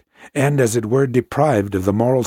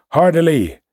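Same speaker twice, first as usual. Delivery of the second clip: higher, louder command; captain shouts the helm order; shouted order; 6 semitones higher, 4 dB louder than usual. A narrator's reading. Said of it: "as if I had shouted".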